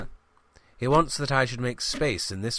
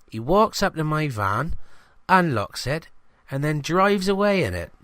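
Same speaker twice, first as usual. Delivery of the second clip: higher, chatty village shopkeeper voice; gossipy greengrocer; 6 semitones higher than usual. Acted. Greengrocer telling the reporter about his stolen van, higher and chatty.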